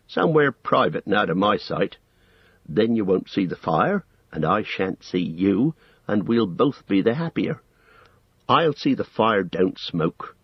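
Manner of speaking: lively, firm character voice with swooping pitch; no-nonsense Sam. Acted. Sam telling Gollum to eat out of sight, firm. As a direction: lay down the rules plainly and firmly.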